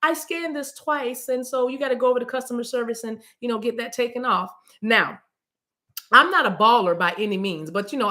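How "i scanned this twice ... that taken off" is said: higher-pitched cashier breaking minor bad news; lightly voiced cashier. Cashier telling a customer about a double scan, lightly mimicked. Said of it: "and she said to me".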